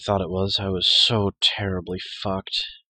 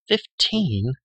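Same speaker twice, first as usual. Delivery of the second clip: a higher, stunned echo with a falling end; shocked question; 6 semitones higher, 5 dB louder than usual. A narrator's reading. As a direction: echo the number in disbelief.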